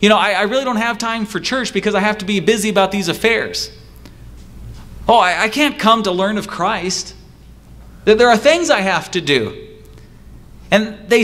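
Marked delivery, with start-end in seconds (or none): 0.0-9.7 higher, fast, hedging excuse voice; voicing an excuse-maker. Preacher mimics someone excusing themselves from church, higher and fast. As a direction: stammer out excuses quickly, a touch higher. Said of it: "Somebody might say".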